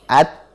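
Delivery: At with the tongue pressed and held, no breath; held sukun t. Shown as a demonstration. Teacher modelling a held t for a student. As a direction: stop on the t and hold it. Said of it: "Jangan ada hamesnya".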